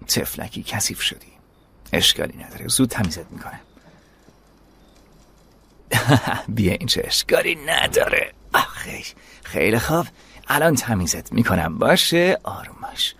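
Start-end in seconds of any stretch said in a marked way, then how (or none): 0.1-3.6 soothing. Acted. Soothing a dirty dog. 12.4-13.1 hushed, calming the dog; calming whisper. Acted.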